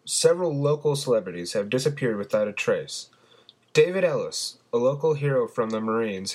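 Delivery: TV newsreader delivering top stories; news anchor. Acted. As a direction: read it as an evening news bulletin.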